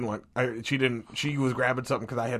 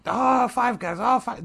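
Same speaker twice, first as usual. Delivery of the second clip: high, loud teasing chant of Five Guys; mock cheer; 12 semitones higher, 5 dB louder, slower than usual. Group chat teasing about Five Guys.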